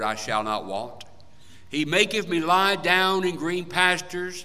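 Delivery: measured, solemn psalm reading; scripture recitation. Acted. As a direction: read the psalm as a sacred text, each line weighed. Recites Psalm twenty-three.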